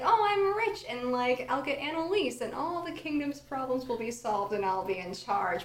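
loud, gleeful gloat; gloating villain. Retold or imitated. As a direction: crow over the win. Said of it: "come back and be like".

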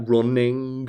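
slow, drawn-out Southern drawl; imitating a thick Southern accent. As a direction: stretch it into a deep Southern drawl. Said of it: "really deep southern drawl".

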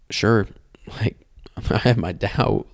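half-ashamed whispered confession; whispered admission. Retold or imitated. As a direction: whisper the doubt with a small laugh. Confessing doubts, quoted.

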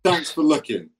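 sleazy, suggestive thanks; a hint of a creepy stranger thanking you; creepy park flasher. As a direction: lay it on like a flasher in the bushes. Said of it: "is that what you say in the park?".

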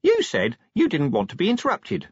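high-voiced, defensive little imp; small voice protesting in self-defence. A narrator's reading. Imp to Vimes, who asked not to be interrupted, defensive. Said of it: "said the imp defensively".

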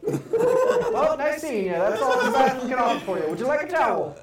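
bathroom attendant voice. Acted. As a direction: play the cheeky towel man.

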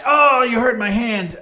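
high, petulant hurt whine; whiny male model voice. Acted. Acting a movie quote in game.

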